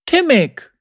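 put-on high-pitched child's voice; young boy. Boy giving his name to his rescuer, high childlike voice.

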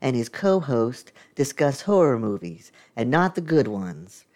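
scripted podcast welcome; podcast intro. Acted. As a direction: read it out as a show opener.

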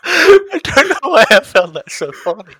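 high, loud, slow words through laughter; laughing helplessly. Real, not acted. Host cracking up at a friend's podcast name, laughing helplessly. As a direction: squeal it out through real laughter.

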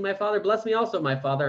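a touch of tearful pleading, pitch climbing high. Acted. Esau pleading again with his father, mild tearful plea. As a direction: beg with a lifted voice, lightly acted. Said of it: "And Esau raised his voice and wept".

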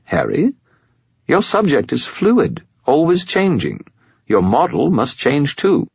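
high lecturing spirit voice; Bob skull voice. A narrator's reading. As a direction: lecture like a know-it-all skull.

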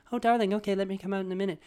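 high, doting grandmother voice. Retold or imitated. Grandma calling back to her grandson, high doting impression. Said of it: "I talk to my grandmother".

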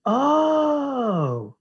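long, loud, high dawning "oh"; sudden realization. Retold or imitated. Retelling when it hit him, exaggerated realization. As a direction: re-enact the penny dropping, drawn out and falling away. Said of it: "all of a sudden it hit me".

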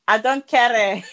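put-on light, half-hearted Zimbabwean accent; attempted Zimbabwean accent. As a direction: have a shaky go at a Zimbabwean accent. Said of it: "can't even do it in the accent".

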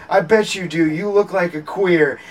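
high, loud imitated retort; hammed-up courtroom comeback; mock screaming judge. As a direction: fire it back as a heated judge. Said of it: "screaming at each other".

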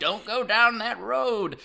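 drawn-out ominous warning, hammed up; gas station clerk. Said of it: "there's always the gas station clerk".

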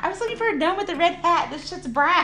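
high, fast, laughing protest; laughing disbelief. Real, not acted. Mocking the brown gnome.

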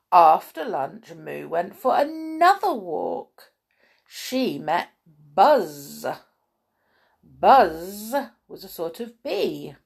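slow storytelling with lingering key words; measured picture-book reading; children's story narration. A narrator's reading. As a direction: read it to small children, pausing between phrases.

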